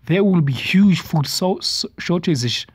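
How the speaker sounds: slow, deliberate read-out of a text; slowed-down emphatic quoting. Shown as a demonstration. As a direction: read it slowly, word by word. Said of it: "let me read this thing slow".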